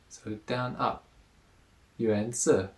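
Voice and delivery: "Yuan" rising, "Si" third tone dipping down then up; tone contour demo. Shown as a demonstration. Teacher walks students through the third tone's dipping contour. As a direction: trace the dip in "Si": down, then up. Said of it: "third tone".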